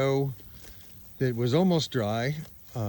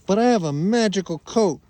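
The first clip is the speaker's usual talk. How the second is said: voicing the sheep; 3 semitones higher, 4 dB louder than usual. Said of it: "Spike says".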